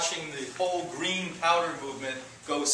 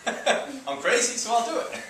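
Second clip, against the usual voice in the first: mock dopey customer, slow then pitched up with a laugh; mock brainwashed customer; 8 semitones higher, 4 dB louder, slower than usual. Health lecturer mocking a brainwashed drug buyer, mock dopey voice. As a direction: sneer it like a gullible buyer. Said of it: "believing you're crazy".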